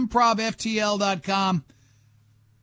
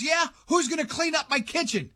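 higher mock housewife voice; complaining wife; 9 semitones higher than usual. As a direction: imitate the wife griping, pitched up. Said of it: "She goes".

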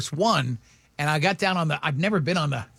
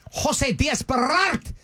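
slow, rolled Spanish pronunciation of "Jose Diaz Balart"; mock Spanish newscaster; 7 semitones higher, much slower than usual. Mimicking a Hispanic news anchor's Spanish-accented names. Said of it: "roll that R".

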